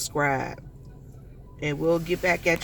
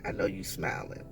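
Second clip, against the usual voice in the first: soft unvoiced whisper; tender softer whisper to the departed; 7 dB quieter than usual. Real, not acted. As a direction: hush it to someone in heaven. Addressing late Jamie in heaven.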